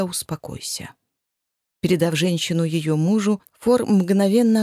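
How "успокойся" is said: soft whisper to calm her. Acted. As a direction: breathe it close to soothe. Man soothing panicked woman.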